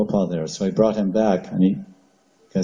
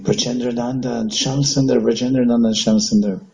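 higher, rapt calling out of the names; ecstatic calling; 4 semitones higher than usual. Retold or imitated. Chaitanya running to the temple, calling ecstatically. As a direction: cry the names in divine madness. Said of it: "he's saying".

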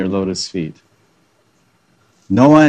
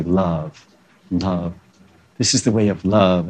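softer, dreamy mock teacher voice; soft mock guru; 3 semitones lower, 3 dB quieter than usual. Preacher mocking yoga teachers who say love, soft mock guru. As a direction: coo it like a syrupy guru.

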